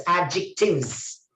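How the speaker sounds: slow "Adjectives", said "a-jik-tivz"; silent D. Shown as a demonstration. Teacher modelling the word for students, slow "Adjectives" without D. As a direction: drop the D in "Adjectives", drawn out. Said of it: "D is silent".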